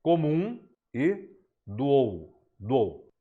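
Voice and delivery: "comum e doou" slowed, the vowels run together into one syllable; elision demo. Shown as a demonstration. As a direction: glide "comum e" into a single poetic syllable, slowly. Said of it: "como você percebeu".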